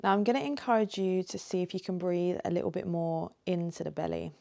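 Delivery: gentle guiding voice with long pauses; lightly held meditation-teacher delivery; guided meditation. Acted. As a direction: ease them into it, unhurried, leaving space between phrases.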